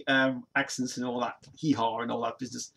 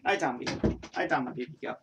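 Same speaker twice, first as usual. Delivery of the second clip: gentle coaxing. Real, not acted. Owner gently soothes his dog to lie down, tender.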